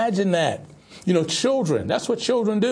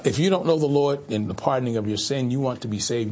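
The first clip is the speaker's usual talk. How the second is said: ordinary talk, nothing marked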